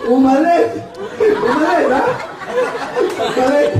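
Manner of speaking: high mock exclamation; acted call. Storekeeper scene acted out.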